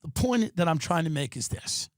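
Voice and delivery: ordinary talk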